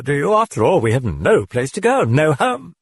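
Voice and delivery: high mocking demon voice. A narrator's reading. The demon taunting the priest in a high voice. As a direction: sneer it out as the demon.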